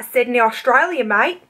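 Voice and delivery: lightly faked Aussie accent; bad Australian accent. Answering where in Australia, badly faked Australian accent. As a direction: put on a rough Australian accent. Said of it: "my shitty Australian accent".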